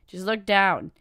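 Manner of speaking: impatient repeated order; firmer repeat. Acted. Sword repeats the order louder.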